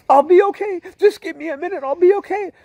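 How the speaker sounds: high-pitched, loud tearful cry; sobbing insistence. Retold or imitated. Sobbing driver brushing off offered help, tearful wail. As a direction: wail it like a man sobbing uncontrollably. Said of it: "he's just sobbing".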